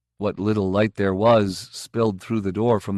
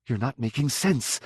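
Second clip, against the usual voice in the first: snapped; 3 semitones higher, 4 dB quieter than usual. A narrator's reading. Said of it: "she snapped".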